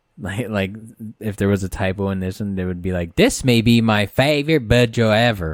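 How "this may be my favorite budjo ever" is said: automated, synthetic computer reading voice. Mimicking how they read a message with a typo, in a computer voice. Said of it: "read it in in the computer voice".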